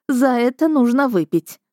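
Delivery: mild narrated mirth; through laughter. A narrator's reading. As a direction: cheer it on with a hint of mirth. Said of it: "проговорила она сквозь смех".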